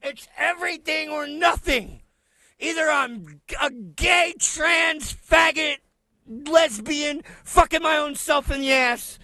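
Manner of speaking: high shouted mocking rant. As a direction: rant it in mockery. Mocking the clip's speaker.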